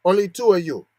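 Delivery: a lightly put-on Asian accent on "Only two of you"; mock Asian accent. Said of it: "That's not how you sound".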